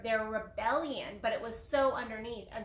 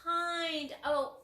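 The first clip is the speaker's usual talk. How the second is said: slow, smug and self-satisfied; a mild mock of a self-praising ego; 2 semitones higher, slower than usual. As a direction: pat yourself on the back slowly. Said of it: "That's your ego".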